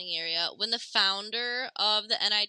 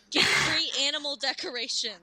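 laughing; 5 semitones higher than usual. Real, not acted. Laughing through joke.

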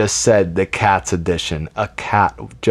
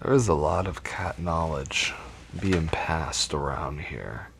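movie announcer voice; 4 semitones lower, 7 dB quieter than usual. Acted. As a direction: sell it like a dramatic film trailer. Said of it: "I just love doing that voice".

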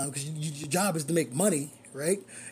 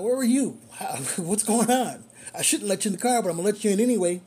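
mock scolding; 3 semitones higher, 3 dB louder than usual. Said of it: "that's what you wanna say to 'em".

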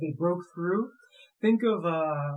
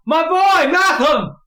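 high, loud frantic father's shout; freaking out; 10 semitones higher, 14 dB louder, slower than usual. Acted. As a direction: scream out for your lost child in panic. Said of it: "You see the man freaking out".

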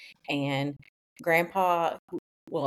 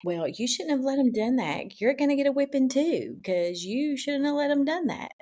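scolding parent; 5 semitones higher than usual. Retold or imitated. Mother scolding kids in story.

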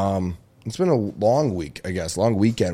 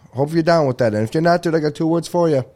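louder, higher wrestling promo; wrestling promo build-up; 5 semitones higher, 4 dB louder than usual. Acted. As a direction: hype up the crowd like a wrestler. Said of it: "the suck it button".

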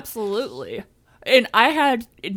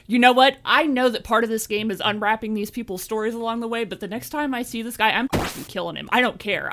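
retold anger; 3 semitones higher than usual. Player vowing revenge on the carjacker, angrily retold. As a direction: replay being fed up, mock-furious resolve. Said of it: "And I was so angry".

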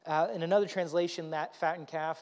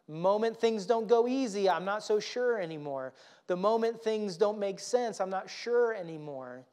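preaching build; 4 semitones higher, 4 dB louder than usual. Real, not acted.

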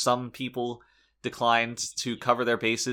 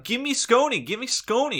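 very high, loud impression of a foot-stamping diva; mock tantrum shout; 14 semitones higher, 5 dB louder than usual. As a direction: imitate a childish demand, pitched way up. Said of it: "start stamping his feet, shouting".

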